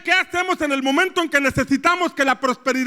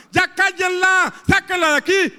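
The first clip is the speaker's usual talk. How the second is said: annoyed disciples; 6 semitones higher than usual. Acted. Disciples telling others to silence the woman, exasperated. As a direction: brush her off, fed up. Disciples voiced, wanting her gone.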